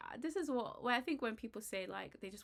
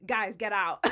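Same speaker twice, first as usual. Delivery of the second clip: louder hammed-up order; mock servant boss yelling; 2 semitones lower, 8 dB louder than usual. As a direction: shoo the staff out, half-joking. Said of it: "their right-hand man to be like".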